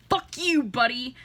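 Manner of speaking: loud, snapping yell at the guy; shouting at the pushy boyfriend; angry shout. Retold or imitated. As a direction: tell him off hard.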